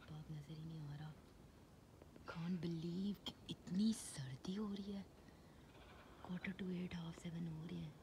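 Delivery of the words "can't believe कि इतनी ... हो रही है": lost voice, whispering hoarsely; real sore throat, barely any voice. Real, not acted. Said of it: "ओ, मेरा गला हो गया इतना ख़राब".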